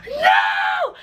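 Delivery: high, shocked cry of dismay; horrified no. Retold or imitated. Vlogger finding the wrong account tagged, horrified cry. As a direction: wail it like the worst news.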